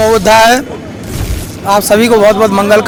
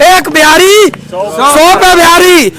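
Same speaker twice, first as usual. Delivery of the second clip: proud slogan; 4 semitones higher, slower than usual. Retold or imitated. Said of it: "मैं सुना करता था".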